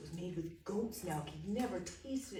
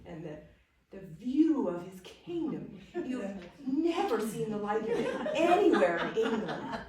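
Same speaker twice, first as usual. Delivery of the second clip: louder, higher, laughing through the praise; laughing boast; 4 semitones higher, 10 dB louder than usual. Acted. Young man boasting to the Duke, louder and laughing. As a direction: gush with laughter over the castle.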